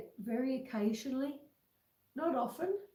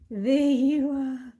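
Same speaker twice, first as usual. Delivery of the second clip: loud praise; 9 dB louder, slower than usual. Real, not acted. Praising after trick.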